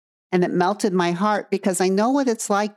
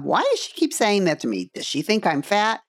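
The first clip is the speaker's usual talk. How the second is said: a hint of a worried little girl, rising higher at the end; mild little girl voice, pitch climbing on the last question; little girl version; 3 semitones higher than usual. Shown as a demonstration. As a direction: ask it lightly like an insecure little girl. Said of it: "giving you the little girl version".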